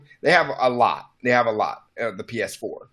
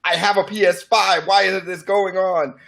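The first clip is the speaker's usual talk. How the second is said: higher, whining gamer complaining about cross-gen; mocking whiny fanboy; 5 semitones higher than usual. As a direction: parody an entitled fanboy's outrage, a bit higher. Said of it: "fanboys lashing out saying".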